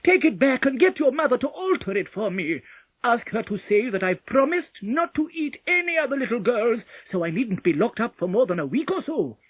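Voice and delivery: loud, high pleading wolf; begging. A narrator's reading. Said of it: "the wolf begged".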